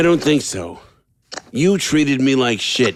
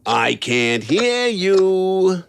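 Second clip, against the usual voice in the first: mock deafness; 5 semitones higher, much slower than usual. Mocking the silenced doll.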